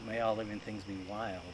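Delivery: solemn blessing. Shown as a demonstration. Laying the dead starling to rest, quiet solemn blessing. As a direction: bless the bird gently as you lay it down. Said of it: "I'm gonna go".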